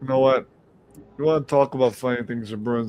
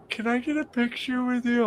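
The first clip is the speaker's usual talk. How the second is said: higher-pitched imitation of a girl; girl's voice, put on higher; retold girl's request; 12 semitones higher than usual. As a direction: imitate her asking, pitched well up. Retold girl asking for photo.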